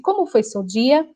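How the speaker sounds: "Como foi seu dia?" asked by rote, without interest; mechanical. Retold or imitated. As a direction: recite it like a memorized line. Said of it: "mas ele faz mecanicamente". (pergunta mecânica, sem interesse)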